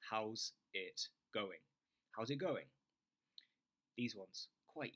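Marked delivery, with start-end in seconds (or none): 0.1-1.6 slow demo. Shown as a demonstration. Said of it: "shadow me". 2.2-2.7 "How's it going?" said quickly with pitch up; a brisk, lifted "How's it going?"; quicker, higher demo. Shown as a demonstration. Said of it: "shadow me".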